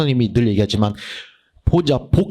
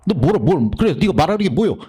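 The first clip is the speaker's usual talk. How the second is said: quick, higher challenging talk-back; arguing with the text; 5 semitones higher than usual. Shown as a demonstration. Reader talking back to a hard passage, challenging. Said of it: "대화하면서 읽으라고 그래".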